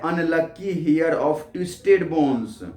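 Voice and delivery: each word read out slowly and clearly; slow poem reading. Shown as a demonstration. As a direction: read the line slowly, as for a class. Teacher reads poem line aloud. (धीमे-धीमे कविता पढ़ना)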